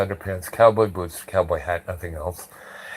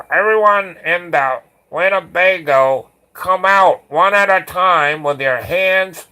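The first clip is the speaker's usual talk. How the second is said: shouted order; 8 semitones higher, 7 dB louder than usual. Retold or imitated. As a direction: bellow orders at people inside a vehicle. Calling everyone out of the Winnebago.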